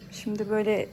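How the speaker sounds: quiet whisper. Real, not acted. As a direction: whisper so the bird stays calm. Talking low near bird. (fısıltıyla)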